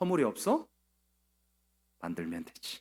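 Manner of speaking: low, soft, cold, sinister tone.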